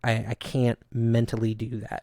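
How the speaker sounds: understated, resigned retelling; pessimistic, negative. Retold or imitated. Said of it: "I sounded pessimistic and negative".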